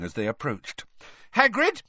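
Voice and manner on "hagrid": high, loud call; shouted. A narrator's reading. Hermione pounds on Hagrid's door, shouting. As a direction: call through a closed door. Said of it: "Hermione shouted".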